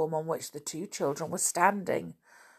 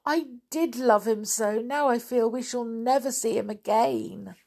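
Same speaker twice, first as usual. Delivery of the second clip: put-on higher-pitched sorrowful child's lament; acted tearful lament; 5 semitones higher than usual. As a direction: lament it, lightly sobbing. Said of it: "sobbed Molly".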